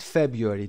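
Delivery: "February" repeated as FEB-yoo-ree, stress on the first syllable; careful pronunciation. Shown as a demonstration. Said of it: "تلفظ رو دقت داشته باشید".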